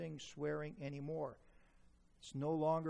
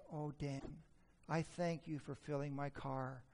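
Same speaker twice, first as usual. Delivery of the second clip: softer, lower mock gratitude; imitating grateful wife; 3 semitones lower, 6 dB quieter than usual. Wife thanking Dan for the errands, mock grateful. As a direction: thank him with mild mock tenderness.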